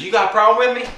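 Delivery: high, mock-confrontational neighbor; Jarney. Neighbor confronting the video maker, high mocking challenge. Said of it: "this is my impression of him".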